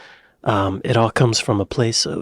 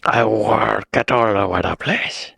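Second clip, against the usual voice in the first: Bristol accent imitation, burred R. Repeating the clip's Bristolian, in a Bristol accent. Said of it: "It's fun to talk like that".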